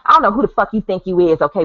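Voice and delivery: hammed-up angry woman voice; mock angry woman. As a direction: tell her off like an angry woman. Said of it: "It would have been more like this".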